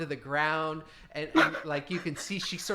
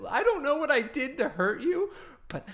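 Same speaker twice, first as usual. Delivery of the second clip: weepy threat; 5 semitones higher than usual. Acted. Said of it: "she starts to weep".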